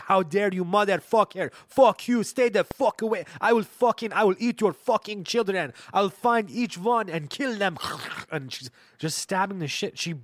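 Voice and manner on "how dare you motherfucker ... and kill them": much higher, much louder raging threats; raging grandma scream. Retold or imitated. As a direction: scream it like a murderous old woman.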